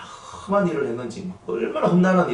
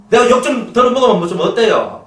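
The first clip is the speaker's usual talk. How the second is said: louder, higher challenge to the flock; preach it loud; 9 semitones higher, 7 dB louder than usual. Real, not acted. Pastor loudly challenges the congregation, louder. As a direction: shout the challenge.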